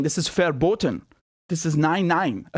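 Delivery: light mock-German accent; put-on German accent. Host mocking forbidden speech, put-on German accent. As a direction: lapse into a playful German accent. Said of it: "I don't know why I'm putting on this accent".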